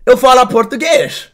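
demonstrating a Portuguese accent for approval. Shown as a demonstration. Streamer asking chat to judge his Portuguese accent. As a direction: put on your best Portuguese accent. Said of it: "isn't that a good accent".

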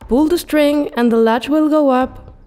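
called out. A narrator's reading. Grandmother calling to the visitor at the door. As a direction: call to the door from bed. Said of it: "The good grandmother called out".

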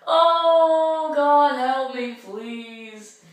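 loud slow plea; pained groan. Real, not acted. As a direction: groan it out from the cold. Ice bath pain.

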